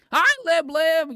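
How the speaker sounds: high, slow cooing hello; high sweet greeting. Pretend. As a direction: coo the greeting up high to a toy. Greeting the plush toy sweetly.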